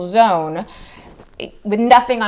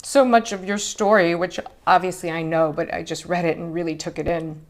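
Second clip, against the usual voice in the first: crying. Real, not acted. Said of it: "that's why I'm crying".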